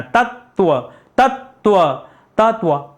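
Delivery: तत्व repeated three times, ending firmly on tva; tattva drilled. Shown as a demonstration. Teacher drilling students on saying tattva. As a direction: drill तत्व slowly for the class. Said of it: "आप पढ़ के देखिए ना, मुंह से बोलिए".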